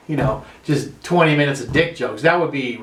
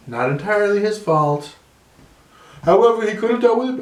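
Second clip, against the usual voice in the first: a hint of Trump, quickening at the end; lightly voiced Trump holding forth; Trump impression. Comic shows the audience a weak Trump. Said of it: "I can't even do a Trump".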